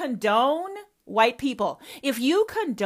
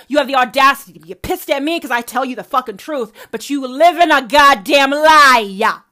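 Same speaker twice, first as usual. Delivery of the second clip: furious accusation; 4 semitones higher, 12 dB louder than usual. Real, not acted. Daughter calls her mother a hypocrite, furious and loud. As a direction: spit the accusation out.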